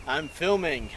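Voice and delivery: hammed-up TV host voice; cartoonish presenter delivery; exaggerated cartoon intonation. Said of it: "Why are you talking like that?".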